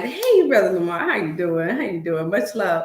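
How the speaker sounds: eager greeting, opening high and loud; lively retold phone greeting; imitated excitement. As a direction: mimic an excited caller saying hello. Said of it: "I could hear the excitement".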